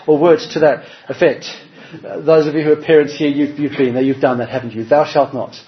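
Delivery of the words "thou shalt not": chuckling through a stern command; half-laughing mock decree. Parent's command retold, laughing.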